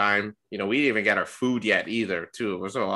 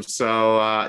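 normal talking voice

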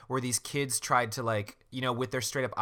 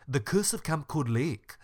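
slow, stilted audiobook robot imitation; 3 semitones higher than usual. Host imitating the computer-read audiobook, robot voice. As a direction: mimic a robot narrator with an accent. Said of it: "listen to her robot voice".

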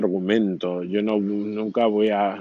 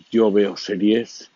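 slow, louder quoted line; quoting C J Navas; 5 dB louder, slower than usual. Retold or imitated. Quoting a podcaster to his listeners, slow and louder. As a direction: spell it out slowly like a famous catchphrase. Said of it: "citando al gran C J Navas".

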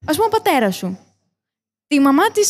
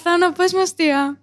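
slow, higher mock begging; mock pleading; 5 semitones higher, slower than usual. Teasing friends about falling for his trap, mock pleading. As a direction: beg playfully, drawing it out. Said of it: "Τον παρακαλούσες να σου το πει".

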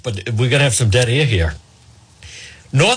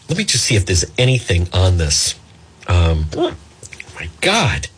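hiccuping; 5 semitones lower than usual. Real, not acted. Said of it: "Hiccups live on the air".

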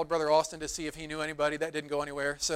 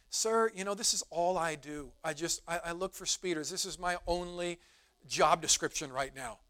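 softer, apologetic cop voice; apologetic officer; 6 dB quieter than usual. Retold or imitated. Kind officer apologizing to a speeding driver, softly. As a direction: say it like you're sorry to write the ticket. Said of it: "like he was apologizing to me".

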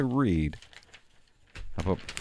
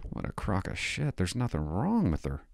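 breathy laugh then a whispered curse; scoffing whispered aside; 4 semitones lower, 7 dB quieter than usual. Real, not acted. Comic scoffing at the paper's claims, whispered. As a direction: mutter your contempt under your breath.

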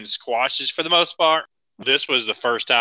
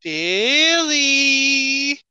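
high called out Billy; 12 semitones higher, 3 dB louder than usual. Pretend. Calling out in character.

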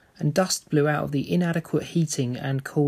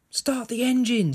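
higher pleading cry, not much louder; frightened girl crying out to her mother; scream; 11 semitones higher, 3 dB louder than usual. Acted. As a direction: beg her mother, voice pitched up in panic. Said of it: "screamed Jenny".

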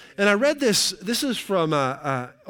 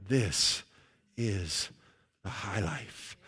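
measured phrases, sinking lower and softer; solemn sermon close; 5 semitones lower, 5 dB quieter, much slower than usual. Acted. Preacher sends the congregation off with scripture, measured and solemn. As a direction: land each phrase separately, with space between.

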